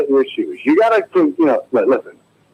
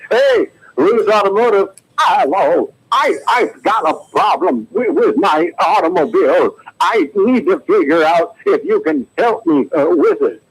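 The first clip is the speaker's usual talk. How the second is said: shaky, higher old-lady film star voice, hammed up; Katharine Hepburn; 4 semitones higher, slower than usual. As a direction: wobble it like an aging screen diva. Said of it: "here's my impression of Katharine Hepburn".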